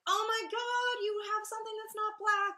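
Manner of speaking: shrill, high, loud mock gasp at the outfit; hammed-up squeal of fake amazement; mocking gushing fan. Mocking people who gasp at her white outfit in a high squeal. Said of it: "And people are like".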